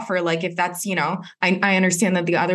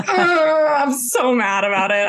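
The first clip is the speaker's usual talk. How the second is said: laughing; 6 semitones higher, slower than usual. Real, not acted. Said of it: "laughing shout".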